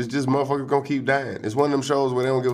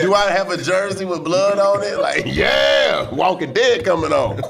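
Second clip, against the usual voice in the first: mock fan excitement; 4 semitones higher, slower than usual. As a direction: ham up a sports fan.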